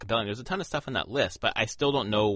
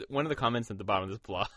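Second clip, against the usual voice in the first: laughing while choking on beer; sputtering through the laugh; choking on a drink; faster than usual. Real, not acted. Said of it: "Choking on my beer".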